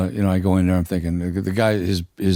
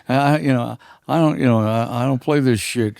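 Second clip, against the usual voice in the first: indignant singer; 5 semitones higher than usual. Retold or imitated. The singer continues scolding.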